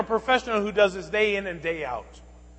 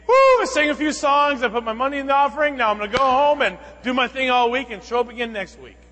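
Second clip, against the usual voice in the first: mock churchgoer; 4 semitones higher than usual. Mocking a Sunday-only churchgoer.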